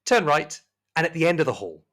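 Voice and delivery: high, loud, emphatic directions; high voice insisting point by point; insistent serving woman. Acted. Rosemary firmly repeats her directions.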